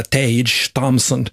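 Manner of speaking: Tage Thompson in American English; American accent, Tage as one syllable "tayj"; American pronunciation. Shown as a demonstration. Host correcting the player's name, American accent. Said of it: "inte det, utan han heter".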